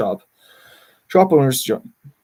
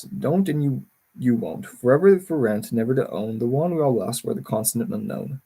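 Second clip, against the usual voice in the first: poem recital. Acted. Poetic recited monologue on Hollywood.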